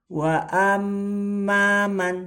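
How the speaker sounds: wa ammaman with mm held long, slow and high; held doubled m. Shown as a demonstration. Teacher demonstrating to students, mm held. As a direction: hold the mm of ammaman. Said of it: "Nah, ini juga".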